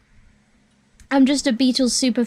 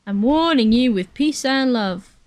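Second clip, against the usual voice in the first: impression of a famous drummer. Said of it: "That's how he talks".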